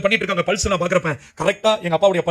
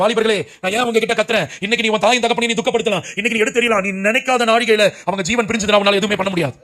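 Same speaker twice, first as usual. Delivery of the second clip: preaching shout; 2 semitones higher than usual. Real, not acted. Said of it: "அதனாலதான் என் வாலிப பிள்ளைங்களை பார்த்து கத்துறேன்".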